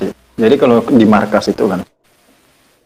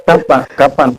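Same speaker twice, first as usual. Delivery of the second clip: pushy questioning; 2 semitones higher than usual. Retold or imitated. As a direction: fire off a short, insistent mock demand. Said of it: "Nadanya seperti itu".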